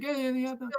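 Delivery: high-pitched, mock thick Scottish brogue; imitated Scottish accent. Gym-goer imitating a Scottish acquaintance's reply, mock thick Scottish accent. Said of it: "he's, like, doing his accent".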